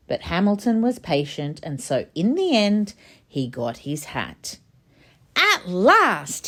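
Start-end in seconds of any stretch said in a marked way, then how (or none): 5.4-6.5 sighed with relief; relieved sigh. Acted. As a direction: breathe it out, relieved. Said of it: "he sighed".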